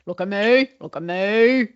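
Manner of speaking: broad Aussie "look at me"; lightly voiced Kimi; Kimi impression. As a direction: play Kimi begging for attention. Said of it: "you know, Kimi".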